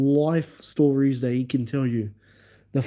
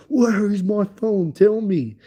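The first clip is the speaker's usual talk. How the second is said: retold angry friend; 6 semitones higher than usual. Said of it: "He's like".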